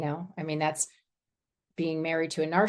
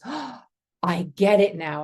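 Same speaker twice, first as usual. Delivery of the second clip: gasped "oh", then louder dawning insight; sudden realization; 2 semitones higher, 3 dB louder than usual. Retold or imitated. Spiritual director to directee at Galilee, sudden realization. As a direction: act out a retold lightbulb moment.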